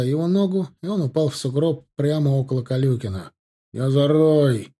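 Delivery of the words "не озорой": stern shout. A narrator's reading. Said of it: "прикрикнул тот грозно".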